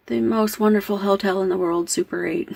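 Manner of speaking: lightly sarcastic mock praise; deadpan-leaning sarcasm, gently done; a little sarcastic. Real, not acted. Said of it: "I'm being a little sarcastic there".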